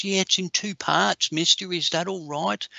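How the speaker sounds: a hint of a sweet eight-year-old asking politely; little girl voice.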